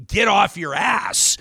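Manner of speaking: punchy rallying cry from a quoted email; emphatic quoted order. Retold or imitated. Quoting listener's emphatic email to progressives.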